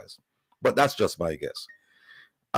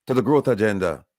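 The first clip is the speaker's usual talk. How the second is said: slow, deliberate restating of a quote; emphatic repeat. Retold or imitated. Host repeating the leader's quote to listeners, slow and emphatic. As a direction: spell it out slowly, phrase by phrase.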